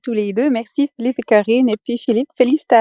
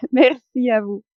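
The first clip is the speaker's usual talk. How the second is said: thanks through a light laugh; smiling. Real, not acted. Student thanks the coaches after joking about the accent, smiling. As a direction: say thanks with an audible smile. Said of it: "surtout quand tu souris".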